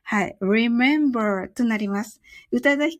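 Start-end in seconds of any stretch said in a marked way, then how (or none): 0.4-1.5 remember with the r rolled. Shown as a demonstration. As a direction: roll the r at the start of remember. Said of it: "巻き舌です". (rememberのRを巻き舌で)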